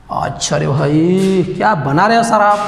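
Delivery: teasing mock praise. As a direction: stretch it out like a student ribbing the teacher. Voices students teasing his drawing.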